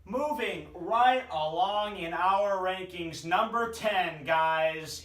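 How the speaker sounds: loud, slow announcer build-up; hyped announcer. Real, not acted. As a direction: announce the next team like a show host. Fantasy rankings show host announcing.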